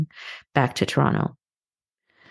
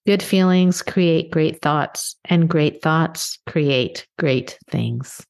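slow, each word set down deliberately; slow, weighty maxim; slower than usual. Real, not acted. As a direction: spell out the motto slowly so it sinks in. Stating her key maxim.

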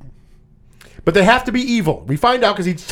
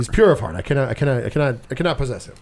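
lower-pitched, lightly put-on Jamaican vampire accent; mock Jamaican accent; 5 semitones lower, faster than usual. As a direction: imitate a bad fake Jamaican accent, deep and lazy. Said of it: "terrible Jamaican accent the whole fucking movie".

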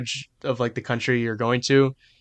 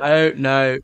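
put-on British accent. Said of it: "she does that kinda shit".

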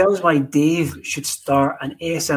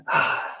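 imitated smoker's puff; 3 dB quieter than usual. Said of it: "big puff".

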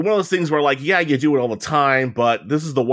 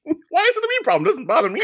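slurping noodles. Real, not acted. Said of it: "'Cause you're making slurpy noises into your microphone".

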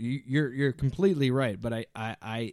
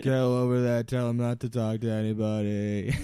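louder, bossy orders; Boston Rob impression; 3 dB louder than usual. Boston Rob bossing a tribemate, loud orders. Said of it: "talking like Boston Rob".

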